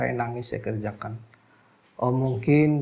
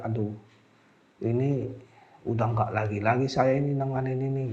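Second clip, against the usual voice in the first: softer, giving-up sigh of a thought; tearful despair; 4 semitones lower, 6 dB quieter than usual. Retold or imitated. Healer recalling wanting to quit, soft and defeated. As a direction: let the words sink with defeat. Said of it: "Saya nangis di situ".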